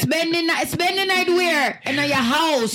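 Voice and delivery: scandalised mock elder voice; mock incredulous. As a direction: act the strict relative who can't believe the request. Voicing strict family refusing sleepover.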